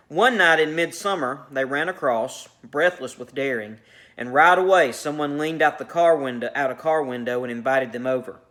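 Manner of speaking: measured read-aloud of a short story; narrating fiction to a class; story narration. A narrator's reading.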